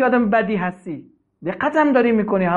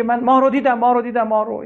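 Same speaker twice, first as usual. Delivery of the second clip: mock shout; 5 semitones higher than usual. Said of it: "داد زد و فریاد که".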